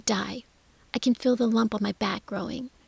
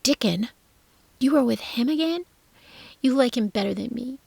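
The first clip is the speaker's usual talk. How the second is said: higher, louder jealous outburst; 3 semitones higher, 5 dB louder than usual. Acted. Jealous boy shouting threats about Dickon. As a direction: hurl it out in jealous hurt.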